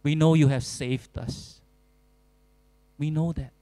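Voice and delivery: earnest, trusting prayer; a touch of a sincere lament. Pretend. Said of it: "we go to God and we say".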